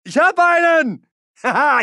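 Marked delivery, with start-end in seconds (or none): 1.2-1.8 short triumphant battlefield laugh; gloating laugh. Acted. Soldier laughing after hitting an enemy, gloating.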